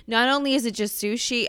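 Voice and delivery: upbeat commercial pitch; ad read voice. Shown as a demonstration. Pitching the sushi buffet to the audience, ad-read style. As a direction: sell it like a radio ad. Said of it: "I'm doing an ad now".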